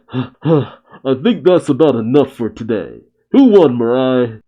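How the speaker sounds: panting, winded voice; out of breath. Acted. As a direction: puff out the words, winded. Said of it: "huffing and puffing".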